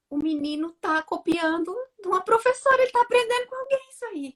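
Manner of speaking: high-pitched, rising dawning shock; acted-out realisation, voice climbing high; alarmed realisation. Mother realising her son copies someone, alarmed.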